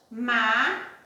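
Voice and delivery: MA-CA-CO, three separate beats; syllable by syllable. Shown as a demonstration. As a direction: break Macaco apart with a pause after each syllable. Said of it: "Nós pronunciamos e quantas vezes nós abrimos a boquinha?".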